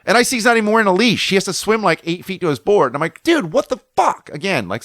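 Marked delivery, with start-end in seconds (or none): 3.2-4.3 high, drawn-out indignant retort; pissed. Retold or imitated. Surfer confronting the guy a second time, pissed. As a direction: re-enact exasperated disbelief at a higher pitch. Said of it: "so I'm pissed".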